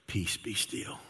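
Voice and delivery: hushed, low and unhurried; calm command. Acted. Jesus looks around at the storm, speaking low and calm.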